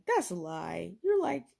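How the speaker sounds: mocking coworker. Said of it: "they're like".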